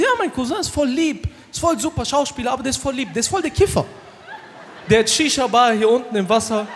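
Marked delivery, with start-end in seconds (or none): 0.0-3.8 lightly voiced shark. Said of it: "Der so".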